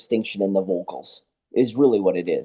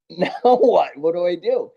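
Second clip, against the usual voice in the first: higher, gasped-in mock panic; gasp, then voice a helpless question; retold alarm; 4 semitones higher than usual. Sound engineer cut off mid-setup, mildly panicked.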